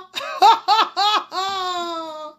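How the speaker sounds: high, pulsing, drawn-out cry; mock wail. After calling for mama, theatrical mock wail. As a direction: let out a long stuttering wail.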